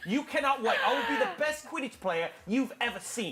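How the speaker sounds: hammed-up British accent, slightly Irish-sounding; playfully bad British accent; mock British accent. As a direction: boast in a put-on British voice. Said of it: "play it with your best British voice".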